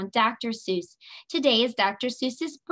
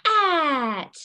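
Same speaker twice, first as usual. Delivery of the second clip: loud, drawn-out giant, pitched up; big voice, falling away at the end; 5 semitones higher, 4 dB louder than usual. Shown as a demonstration. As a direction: boom it out like a storybook giant. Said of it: "giant voice".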